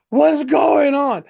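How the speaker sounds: high, slow, drawn-out mock shout; frightened passenger. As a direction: holler it from the back of the plane. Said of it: "I'm picturing this guy go".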